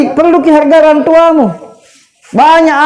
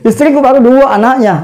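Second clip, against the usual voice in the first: laughing. Real, not acted. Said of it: "Bukan promosi".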